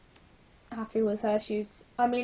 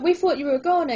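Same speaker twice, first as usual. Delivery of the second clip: louder, bouncy excited blurt; 5 semitones higher, 7 dB louder, faster than usual. Acted. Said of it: "Izzy blurts, bouncing up and down".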